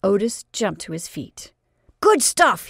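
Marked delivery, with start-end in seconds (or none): 2.0-2.7 high, loud cry of delight; excited cry. Acted. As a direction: jump up and shout it. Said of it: "he cried".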